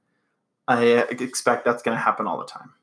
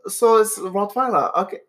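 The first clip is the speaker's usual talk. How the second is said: put-on slow, higher German-accented reply; 8 semitones higher than usual. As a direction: mimic the German man answering. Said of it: "and he's like".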